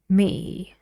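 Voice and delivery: "me" drawn out and sinking; long falling "me"; falling tune on me. Shown as a demonstration. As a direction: let "me" drop away. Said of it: "not falling".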